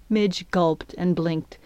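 plain reading voice

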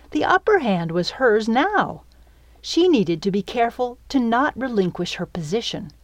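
ordinary delivery, nothing marked

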